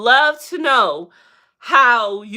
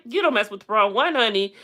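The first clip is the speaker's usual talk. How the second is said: quick sassy repeat; 3 dB quieter, faster than usual. Real, not acted.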